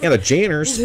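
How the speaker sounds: high, sing-out voice; playful announcement. Pretend. Host repeating the whispered name out loud, high-pitched.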